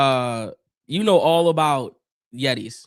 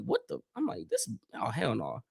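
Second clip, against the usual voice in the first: retold disbelief; 5 dB quieter than usual. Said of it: "I was like".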